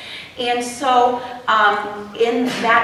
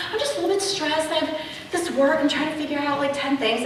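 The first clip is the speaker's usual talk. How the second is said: stressed admission; 5 semitones higher, 4 dB quieter, faster than usual. Retold or imitated. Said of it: "I'm like".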